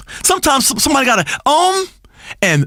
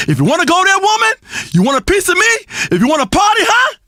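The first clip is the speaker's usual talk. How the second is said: getting angry; 6 semitones higher, faster than usual. Acted. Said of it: "You're getting all angry again".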